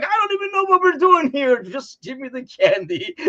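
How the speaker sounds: high, loud, half-laughing retort; mock exasperated, laughing; laughing confusion. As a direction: laugh it out like a clueless kid demanding candy. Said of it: "And I was like".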